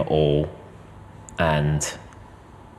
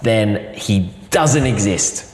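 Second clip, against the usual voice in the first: 1 slow solemn vow; 3 semitones higher, much slower than usual. Retold or imitated. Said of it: "And I go".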